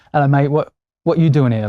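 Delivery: mock British accent, casual greeting; badly imitated British accent, chatty; a singer's accent. Singer greets actor on stage, in a terrible attempt at a British accent. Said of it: "That was a terrible rendition of his accent".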